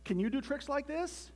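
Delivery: high show-off question; crying out. A narrator's reading. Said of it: "cried Toad".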